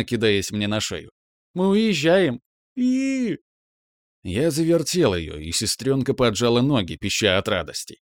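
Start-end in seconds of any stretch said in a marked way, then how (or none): 1.5-3.4 high squeaky burst of glee; thrilled girl. A narrator's reading. Little sister telling her brother, thrilled squeal. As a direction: bounce with excitement.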